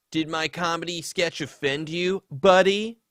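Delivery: a hint of a smug, patronising tone; condescending. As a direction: talk down to him. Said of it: "that condescending buddy".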